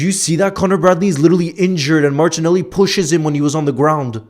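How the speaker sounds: loud, high angry rant; furious at the push, let it rip; outraged. Real, not acted. Fan raging at chat about the push on an injured player, loud and angry.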